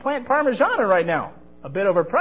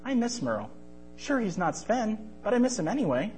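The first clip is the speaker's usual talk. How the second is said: put-on high, soft, sad boy voice; wistful; 5 semitones higher, 4 dB quieter than usual. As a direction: say it softly with longing. Marvy misses his friend.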